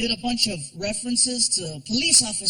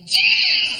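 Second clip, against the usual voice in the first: higher, louder eager yes; excited yell; 7 dB louder than usual. Retold or imitated. Dad thrilled to get the police microphone, eager yell. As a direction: shout it like a delighted kid.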